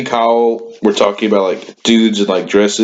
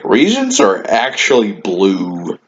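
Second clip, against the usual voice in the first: teacher impression; 2 semitones lower, slower than usual. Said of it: "he would say some dumbass shit like".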